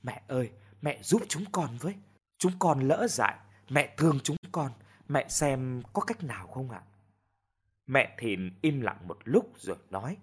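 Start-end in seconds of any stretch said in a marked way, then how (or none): 0.0-6.8 humble pleading. Acted. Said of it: "quỳ rạp xuống xin".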